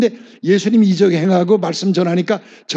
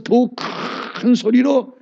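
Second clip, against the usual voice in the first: 큰 lifted higher and drawn out; raised pitch on 큰; 4 semitones higher, slower than usual. Shown as a demonstration. Preacher showing how to raise the cry, 큰 lifted and stretched. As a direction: stretch 큰 upward after a held 더. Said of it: "한 옥탑으로 올려버리는 거예요".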